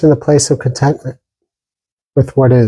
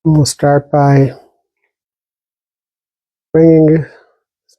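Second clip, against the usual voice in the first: calm, even meditation guidance with long silences between phrases; unhurried meditation teacher, pausing long after each instruction; guided meditation. Real, not acted. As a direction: gently guide listeners inward, leaving lots of space.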